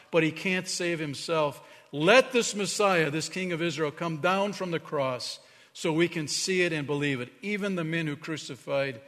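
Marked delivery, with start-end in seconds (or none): 0.1-7.3 scoffing. Acted. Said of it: "they scoffed".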